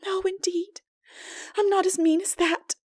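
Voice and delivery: put-on high, eager girl's protest; exclaiming. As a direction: refuse the offer proudly. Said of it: "exclaimed Anne".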